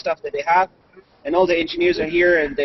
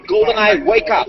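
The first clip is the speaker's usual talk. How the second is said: voice command; 3 semitones higher, 3 dB louder than usual. Shown as a demonstration. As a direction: clear command to the device. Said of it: "head mount display is just gonna wake up".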